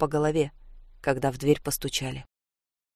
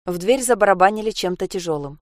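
ordinary delivery, nothing marked

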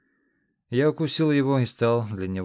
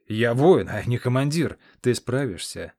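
giant protesting; 6 dB louder than usual. Acted.

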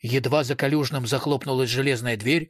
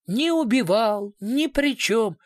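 higher, slower taunting echo; mocking mimicry; 7 semitones higher, slower than usual. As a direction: parody his whining denial. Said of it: "Что за детский сад?".

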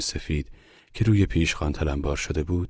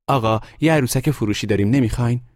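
lightly voiced hawker, higher and louder; a raised, hopeful sales call; boy street seller; 8 semitones higher, 5 dB louder, faster than usual. A narrator's reading. Boy offers his doll to a passing gentleman, calling out.

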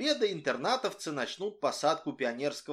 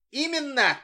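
tender; 11 semitones higher, 6 dB louder than usual. A narrator's reading. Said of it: "ласково сказал Митяй".

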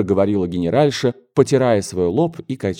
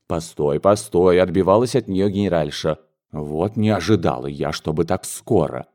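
lightly voiced flustered mother; 4 semitones lower than usual. Mother fending off.

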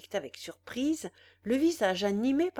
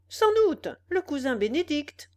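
excited reply; 5 semitones higher, 5 dB louder than usual. A narrator's reading. Village lad telling the others, high and loud. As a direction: jump up high and loud on sans doute. Village lads gossip, exclaiming.

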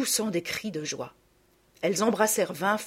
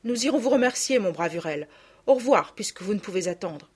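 grateful maid; 5 semitones higher, 7 dB louder than usual. Acted. Maid thanks the carter.

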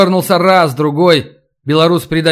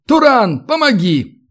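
high, urgent call to a mate; raised-pitch storybook shout; calling for help; 8 semitones higher than usual. A narrator's reading. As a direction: call out sharply for a hand. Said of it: "потянул верёвку и крикнул".

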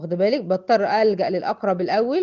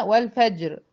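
slow recitation of والفجر; recited example; slower than usual. Shown as a demonstration. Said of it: "زي مثال قلنا".

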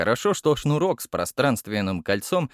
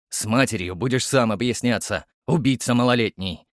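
a touch of gruff scorn; captain grumbling while carrying the boy; snorted. Acted. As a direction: scold the kid with a huff. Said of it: "фыркнул Гаврилов".

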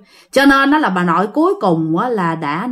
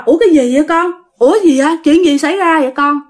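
put-on higher-pitched, puzzled old mother just come round; bewildered; 6 semitones higher, 4 dB louder, faster than usual. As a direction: ask it dazed and baffled, pitched up. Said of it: "Ngơ ngác dòm xung quanh".

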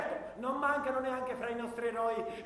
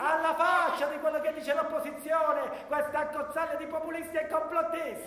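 rally shout; 3 semitones higher than usual. Acted. Propaganda speech.

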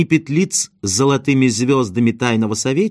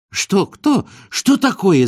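put-on much higher, alarmed old man's yelps; startled cry; 8 semitones higher, slower than usual. A narrator's reading. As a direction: cry out, grabbed by surprise. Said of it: "закричал беспокойный старик". (испуганные высокие выкрики старика)

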